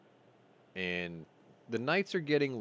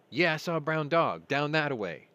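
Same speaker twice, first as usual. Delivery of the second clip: UPS guy's voice; 7 semitones higher, 6 dB louder than usual. Retold or imitated. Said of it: "U P S guy was like".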